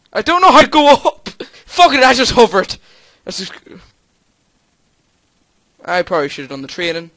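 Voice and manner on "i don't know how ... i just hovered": raised, exasperated voice; frustrated outburst. Real, not acted. Gamer unable to go up, frustrated outburst. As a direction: complain loudly and high, then give up.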